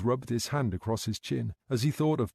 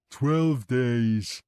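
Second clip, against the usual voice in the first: put-on louder, gleeful childlike echo; grinning repeat; 5 dB louder than usual. A narrator's reading. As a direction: repeat it with a pleased grin. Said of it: "Kevin repeated and grinned".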